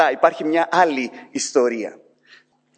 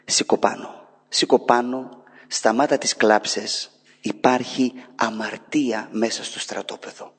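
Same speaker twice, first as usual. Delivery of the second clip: lower, softer, slow "σήκω πάνω"; a quiet firm order to get up; God's stern command; 5 semitones lower, 4 dB quieter than usual. Acted. God ordering weeping Joshua to rise, quiet stern. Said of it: "ο Θεός απαντά στον Ιησού".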